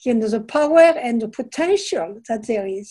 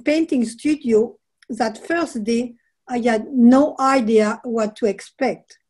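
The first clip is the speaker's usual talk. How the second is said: reading aloud. Acted. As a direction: read it like a reflective passage. Author reads a passage from her book.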